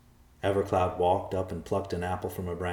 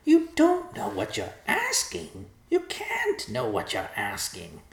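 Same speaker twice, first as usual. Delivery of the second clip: very high, slow pleading squawk, easing down; begging vulture; 13 semitones higher, slower than usual. A narrator's reading. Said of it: "the vulture was begging Evercloud".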